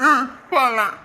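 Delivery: put-on slow, whimpering little-child voice; voicing a crying toddler. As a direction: play the fussy baby begging to go out. Adult voices the crying baby.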